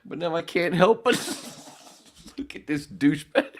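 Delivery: high voice cracking into laughs; helpless laughter. Real, not acted. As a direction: push the words out before you crack up. Laughing fit at own look.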